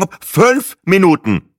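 laut und langsam schnauben; schnaubend. Acted. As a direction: ungeduldig die Minuten hinausstoßen. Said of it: "schnaubte ich". (schnaubt die Gastgeberin ungeduldig an)

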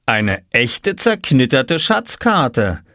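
slow, hushed amazement; marvelling. Acted. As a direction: marvel at the map, drawing it out. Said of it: "sagte Papa staunend". (langsam und staunend)

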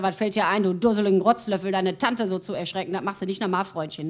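nachgespielte Wut. Retold or imitated. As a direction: play the worked-up husband telling off a lad. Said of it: "Willi auf Hochtouren". (gespielt empörtes Schimpfen)

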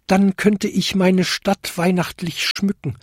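high little kobold voice; piping. A narrator's reading. Kobold hoping to decorate his town, piping. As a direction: pipe it hopefully. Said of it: "piepste der kleinste Winterkobold".

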